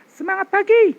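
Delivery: loud cheer from the chest; chest voice demo. Shown as a demonstration. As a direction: push "Semangat pagi" from the chest. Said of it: "Ini udah suara sini, dada". ("Semangat pagi" dengan suara dada yang lantang)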